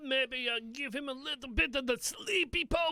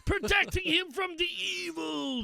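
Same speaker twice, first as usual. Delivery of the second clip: excited; 4 semitones higher than usual. Acted. Joking about chi projection.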